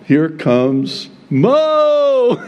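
slow, high, laughing announcement. Real, not acted. Pastor laughing as Moses returns, slow laughing voice. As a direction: draw it out through a laugh.

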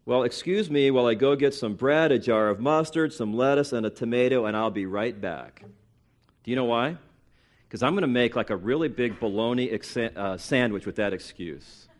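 dry, understated sarcasm; sarcastic. Real, not acted. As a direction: pretend to excuse yourself, deadpan. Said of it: "I said it sarcastically on purpose".

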